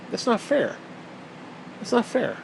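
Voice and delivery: put-on high-pitched childish complaint; put-on pouting protest; mock whining. Pretending to be denied marrying a dog, mock whine.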